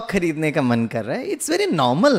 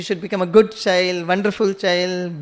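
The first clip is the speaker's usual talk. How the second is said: slow, drawn out; much slower than usual. Retold or imitated. Preacher quoting adults to children.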